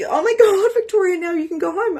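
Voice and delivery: excited sisters. Retold or imitated. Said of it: "were like".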